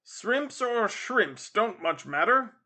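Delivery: dismissive. Acted. Father shrugs it off.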